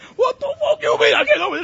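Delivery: very high screaming in a huge southern drawl. Retelling how Randy flipped out at the BMW guy, retelling Randy's yelling southern drawl. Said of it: "in the biggest southern drawl you ever heard".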